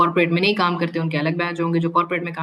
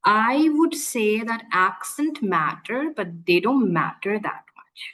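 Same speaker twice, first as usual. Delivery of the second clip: slow, whispered put-on English accent; put-on accent demo; much slower than usual. Shown as a demonstration. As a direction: show off a fake posh accent, slowly. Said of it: "मैं accent बोल रही हूँ". (धीमी फुसफुसाती नकली अंग्रेज़ी accent)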